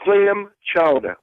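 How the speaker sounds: slow New England accent, chowder as "chowdah"; Rhode Island Boston accent. Shown as a demonstration. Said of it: "say it with your Rhode Island Boston accent".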